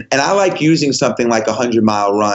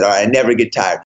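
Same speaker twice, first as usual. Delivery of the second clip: quick mumbled line; 4 semitones lower, faster than usual. Retold or imitated. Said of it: "stop and say it so everybody can hear it".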